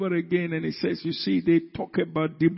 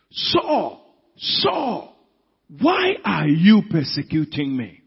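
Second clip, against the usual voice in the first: voice of the Lord; slower than usual. Acted. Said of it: "the voice came".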